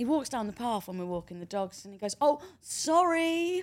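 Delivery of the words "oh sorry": acted, very high, very loud, shrill sarcasm, drawn out. Quoting a kid passing on the path while walking the dogs, mock-sarcastic. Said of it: "a little bit of sarcasm there".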